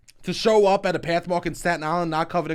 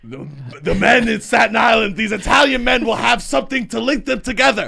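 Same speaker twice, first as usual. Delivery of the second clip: higher, louder, shouted speechifying; mock grand proclamation; 5 semitones higher, 4 dB louder than usual. Comic announcing to podcast host, mock grand shout. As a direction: proclaim it like a town crier.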